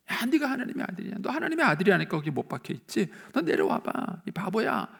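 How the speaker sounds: high-pitched imitation of jeering; mocking taunt. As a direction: jeer like a scornful bystander. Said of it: "예수님을 놀리려고 얘기한 거예요". (높은 목소리로 놀리는 흉내)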